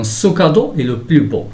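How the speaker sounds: slow, careful sentence reading; slow teacher's model sentence; example read-out. Shown as a demonstration. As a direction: read it out slowly for learners. Teacher reads example sentence aloud.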